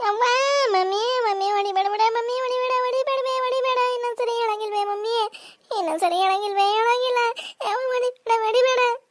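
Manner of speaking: put-on little girl begging her mother not to hit her; crying child. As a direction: plead like a small girl about to be smacked.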